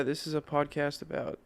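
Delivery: measured public-radio host cadence; NPR-style delivery. Real, not acted. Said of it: "Why are you talking like this is N P R?".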